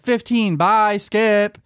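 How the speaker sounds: girl's reply, lightly voiced; a hint of a girl voice. Girl voiced in retold stream.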